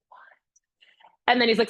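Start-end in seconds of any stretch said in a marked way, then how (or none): 0.1-0.2 breathless, barely voiced "What?"; a hushed gasp of surprise; stunned whisper. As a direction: whisper it in disbelief. Stunned reaction to getting the job.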